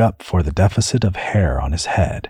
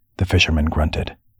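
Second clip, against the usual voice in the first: ordinary delivery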